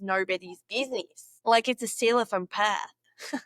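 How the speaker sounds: playful attempt at a Perth Australian accent. Shown as a demonstration. Vlogger shows off to her viewers, in a Perth accent. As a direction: slip into broad Perth Aussie. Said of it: "I love doing the Perth accent".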